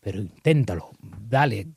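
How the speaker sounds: put-on be the safety net for a daring kid; an adult gently encouraging the trapeze artist; calm reassurance. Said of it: "le tienes que decir como adulto".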